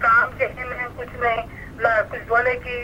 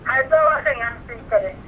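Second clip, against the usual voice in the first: breaking up on a bad phone line; garbled through a failing signal; voice cutting out; faster than usual. Real, not acted. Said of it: "आपकी आवाज़ cut रही है".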